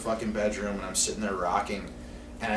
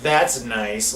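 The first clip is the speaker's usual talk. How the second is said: imitated disgust, a little louder; disgusted passerby; 5 dB louder than usual. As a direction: repeat her disapproving remark with more force. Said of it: "she was so disgusted by this".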